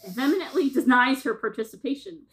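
measured read-aloud narration; synopsis reading. Acted. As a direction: read the plot blurb out with light drama. Reads out a synopsis.

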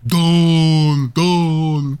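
loud, long drawn-out call; mock yell. Shown as a demonstration. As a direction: bellow the short name, held high. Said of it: "nie jest dobra rzecz do wrzeszczenia".

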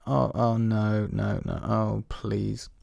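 mock-dismayed condescension; condescending, judgmental. Someone tired of a child's tears, mock condescending. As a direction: imitate someone judging a person for crying. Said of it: "in a condescending and judgmental tone".

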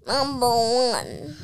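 breathy fake-crying whisper. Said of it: "I'm just kidding".

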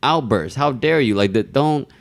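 mock outburst. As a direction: replay the outburst, half-mocking. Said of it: "And I was like".

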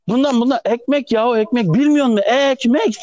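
exasperated customer. Retold or imitated. Customer scolds the clerk who doesn't understand, mock exasperated. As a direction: imitate a customer losing patience over bread.

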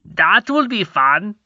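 put-on high, slow childish prince; lightly voiced royal son; young prince voice. A narrator's reading. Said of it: "said the one he took for the Crown Prince".

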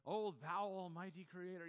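mock-eloquent, slowly drawn-out address to God; lofty Shakespearean prayer. Preacher mimicking someone putting on for God, mock-Shakespearean. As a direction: lightly put on a grand high-English prayer. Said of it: "in high English".

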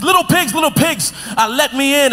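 big bad wolf calling at the door. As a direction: coax the pigs like a hungry wolf. Wolf voiced in told story.

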